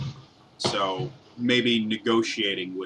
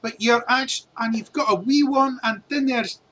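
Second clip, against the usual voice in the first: higher, stumbling flustered dwarf voice; 12 semitones higher, 5 dB louder than usual. Acted. Dwarf flustered by the party, stumbling disbelief. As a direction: trip over the words, baffled. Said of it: "stumbling over himself".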